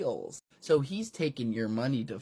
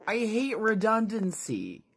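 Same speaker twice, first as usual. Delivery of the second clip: lightly voiced squeaky hero; 8 semitones higher than usual. The speaker's high voice.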